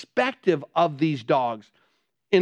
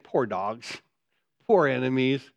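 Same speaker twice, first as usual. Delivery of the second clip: much lower and softer, pitying; mock pity; 6 semitones lower, 3 dB quieter than usual. Preacher pitying the defeated enemies, soft mock pity. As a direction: sigh it over the poor dogs. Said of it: "Do you understand".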